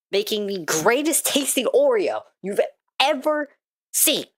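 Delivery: indignant rant about a snack; mock outraged rant. Real, not acted. Ranting to chat about discontinued Oreos, mock outrage. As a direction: vent like it's a real injustice. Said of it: "Sorry, rant over".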